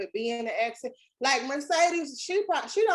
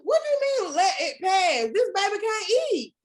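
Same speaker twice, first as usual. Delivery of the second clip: indignant outburst; 9 semitones higher, 5 dB louder than usual. Retold or imitated. Outraged mother retelling daycare.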